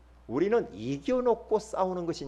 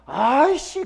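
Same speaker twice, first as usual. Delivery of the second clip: put-on child's echo; 9 semitones higher, 6 dB louder, much slower than usual. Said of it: "뒤에서 뭐라고 하냐를 하빈이가".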